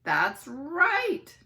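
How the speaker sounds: loud, excited quiz host; host yelling. Acted. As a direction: announce it like a TV host. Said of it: "Dickie Blinkenbarker yelled".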